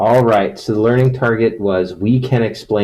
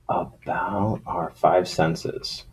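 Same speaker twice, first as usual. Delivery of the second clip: whispered aside to self; hushed, slow under-breath mutter; 6 dB quieter, much slower than usual. Real, not acted. Muttered aside after wrong slide.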